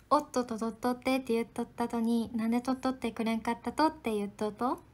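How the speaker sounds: brisk Hakata-ben tongue-twister; light, rhythmic Hakata dialect. Shown as a demonstration. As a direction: recite a playful Hakata dialect line on request. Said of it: "はい、博多弁言いました".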